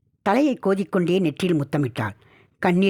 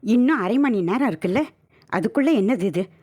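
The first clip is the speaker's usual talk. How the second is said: higher, coy whining protest; whining wife; 5 semitones higher than usual. Acted. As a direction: whine like a pampered young wife. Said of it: "சினுங்கினாள் Meenu". (சிணுங்கலாக)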